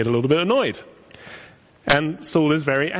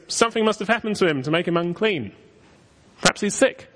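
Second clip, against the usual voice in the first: imitating Saul's thoughts; 5 semitones higher than usual. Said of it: "All he's thinking is".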